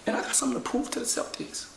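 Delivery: breathy whisper, mostly unvoiced. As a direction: keep it to a whisper.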